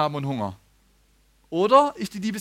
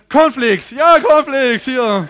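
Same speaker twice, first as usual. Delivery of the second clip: eager offer; 8 semitones higher, 13 dB louder, much slower than usual. Retold or imitated. Offering cornflakes, laughing.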